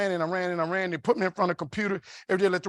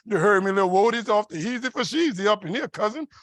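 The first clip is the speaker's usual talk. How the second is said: New Orleans slang. Retold or imitated. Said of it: "Stop saying things like".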